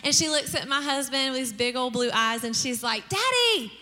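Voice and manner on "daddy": put-on high little-girl call to Dad; high, adoring child imitation. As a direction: imitate a child sweetly calling her father. Child adoringly addressing her dad.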